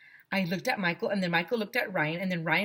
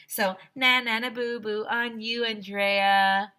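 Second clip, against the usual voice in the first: taunting; 3 semitones higher, 4 dB louder, slower than usual. A narrator's reading. Kid taunting classmate.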